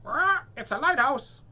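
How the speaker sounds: high, loud pirate exclamation; pirate shouting the riddle answer; excited pirate cry. Acted.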